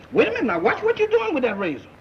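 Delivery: high, rising alarm with a nervous laugh; panicky pleading. Acted. Pleading with the sleepwalking barber, panicked and high. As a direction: beg him to stop, voice climbing in fright. Roommate coming at him with razor.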